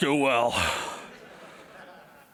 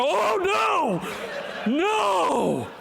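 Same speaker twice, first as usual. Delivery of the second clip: flustered panic; 13 semitones higher, much slower than usual. Retold or imitated. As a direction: blurt it out, caught and embarrassed. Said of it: "I don't play it cool".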